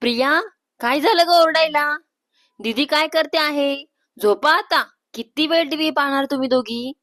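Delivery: mother's mild telling-off; mother calling out. Acted. Mother woken by Priya's shout, calling out. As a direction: call to the girls from another room. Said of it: "आई आवाज देते".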